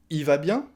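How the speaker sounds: "Il" said as a bare "i"; "i va bien?" rising, no L; dropped L. Shown as a demonstration. Asking after the brother, L swallowed. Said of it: "le il devient i à l'oral".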